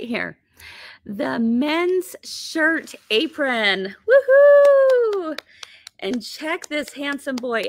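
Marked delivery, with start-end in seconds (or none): 1.1-4.0 grand announcement. Real, not acted. Big reveal of new apron. 4.1-5.4 excited whoop. Real, not acted. Cheering at the reveal.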